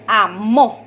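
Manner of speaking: "amó" with the voice landing on MÓ; stress on last syllable. Shown as a demonstration. Teacher showing students where the accent falls, stressed final syllable in "amó". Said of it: "el golpe de voz en la primera palabra es".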